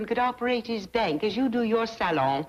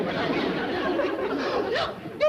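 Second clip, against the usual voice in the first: excited gasp; 10 semitones higher than usual. Acted. Sees the princess again.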